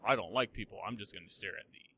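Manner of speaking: a hint of a stern fantasy dwarf. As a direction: imitate a stern, unsociable character. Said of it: "Buddy's, like, nice and stern".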